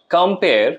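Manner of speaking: কম্পেয়ার with the stress on পেয়ার; light কম, then lean on পেয়ার; teacher marking out কম্পেয়ার as an iamb; iambic stress demo. Shown as a demonstration. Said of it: "পেয়ারটা হচ্ছে stress".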